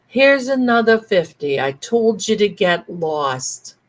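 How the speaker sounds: loud dismissal, slowing down; gruff brush-off. Retold or imitated. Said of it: "and he said".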